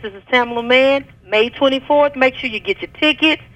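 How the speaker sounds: upbeat radio promo shout-out; excited invitation. Real, not acted. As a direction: hype the crowd to come. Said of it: "invite the people out one last time".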